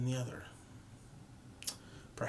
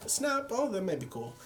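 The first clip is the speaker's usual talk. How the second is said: quick excited snap; 10 semitones higher, 4 dB louder than usual. Retold or imitated. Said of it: "some of these shots are like".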